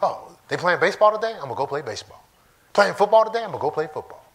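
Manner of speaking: put-on eager kid ready to play; excited child. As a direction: jump at every game like a keen kid. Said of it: "You know, just excited".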